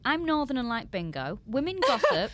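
high, loud comic indignation; hammed-up protest; mock outrage. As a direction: play up the scandalised reaction, pitched right up. Playful mock outrage at stereotypes.

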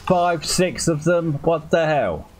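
high, slow counting then what the hell; shocked gamer outcry; alarmed disbelief. Real, not acted. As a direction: sound overwhelmed by the horde. Overrun by enemies in game.

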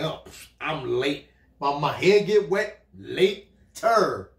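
slow, drawn-out brush-off; lightly voiced careless wife; mock dismissive wife. Wife waving off the husband, a slow lazy mock voice.

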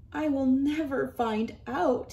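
sniffly. Acted. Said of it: "he sniffed".

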